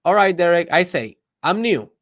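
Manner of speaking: exaggerated going-along; sarcastic compliance. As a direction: say it high and loud, just humouring him. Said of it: "The guy that says".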